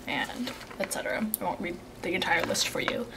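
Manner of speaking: breathy whispered aside; whispering. Real, not acted. Aside while reading ingredients.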